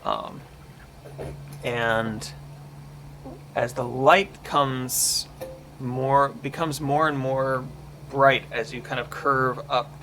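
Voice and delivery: measured storytelling narration; game master's scene setting. Acted. Game master describes a creepy passageway to the players, measured narration. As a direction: describe the scene evenly, pausing between phrases.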